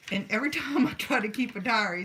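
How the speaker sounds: real laugh breaking into the words. Real, not acted. Laughs while retelling diary story.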